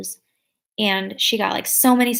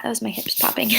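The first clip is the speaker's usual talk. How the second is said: normal talking voice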